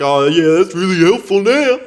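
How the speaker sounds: loud high sarcastic jab. Retold or imitated. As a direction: throw it back dripping sarcasm. Sarcastic retort to worker.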